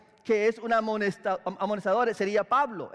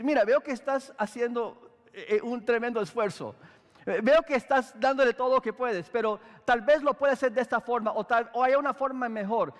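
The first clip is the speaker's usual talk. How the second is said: gentle correction. Shown as a demonstration. Pastor showing the better way to correct, gently. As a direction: acknowledge the effort first, kindly. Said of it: "Es decir".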